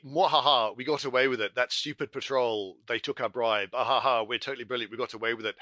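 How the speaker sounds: gloating evil laugh, cackling villain; mad scientist. Pretend. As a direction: cackle like a smug crook. Gloating villain after bribing patrol.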